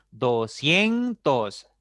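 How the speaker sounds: doscientos slowed, with CIEN punched and stretched; stress on CIEN. Shown as a demonstration. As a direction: lean hard on the CIEN in doscientos. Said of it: "La sílaba tónica esta cae en cien". (doscientos con énfasis marcado en CIEN)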